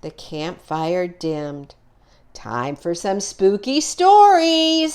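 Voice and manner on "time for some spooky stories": put-on higher, eager kid's voice; eager spooky tease. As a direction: pitch it up like a kid itching to scare friends. Excited kid at campfire.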